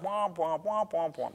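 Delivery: imitated fading chatter, soft and muffled; droning womp-womp. Friend's voice fading away as listener tunes out, droning womps. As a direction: drone like a voice fading out of attention. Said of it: "person's voice just kind of fades away".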